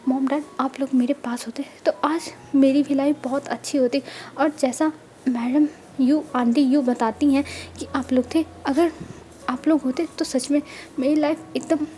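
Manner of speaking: soft tearful near-whisper to the lost parents; crying softly. Acted. Orphan boy crying to his parents' necklace, tearful whisper. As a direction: let the tears thin the voice to a whisper. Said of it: "वो रोने लगता है".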